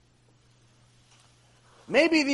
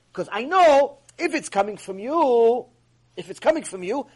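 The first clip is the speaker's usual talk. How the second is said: ordinary talk, nothing marked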